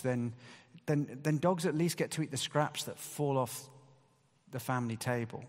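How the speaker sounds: ordinary delivery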